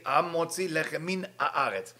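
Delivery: המוציא with a firm, emphasized opening "ha"; stress on the first sound of המוציא. Shown as a demonstration. Teacher showing students how to say the bread blessing, emphasizing the opening of המוציא. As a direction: lean on the "ha" that opens המוציא. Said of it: "he has to emphasize the word of A".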